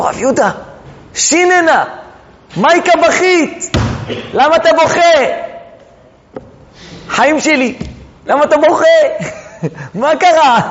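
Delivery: high, tender voice of a loving rabbi; fond teacher. Acted. Shmuel comforting his crying student, high and tender. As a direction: coax the weeping student gently.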